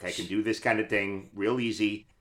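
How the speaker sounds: easy, casual Brooklyn accent; standard Brooklyn accent. Shown as a demonstration. Actor showing off the Brooklyn they play as a transit worker, Brooklyn accent. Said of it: "I have a standard Brooklyn that I can do".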